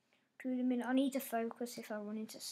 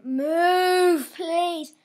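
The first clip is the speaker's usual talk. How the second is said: irritated command; 5 semitones higher, 12 dB louder than usual. Real, not acted. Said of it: "I'm getting angry now".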